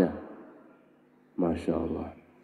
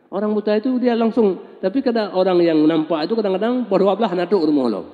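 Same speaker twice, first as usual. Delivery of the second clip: excited marveling; 8 semitones higher than usual. Real, not acted. Preacher marvels at blind man.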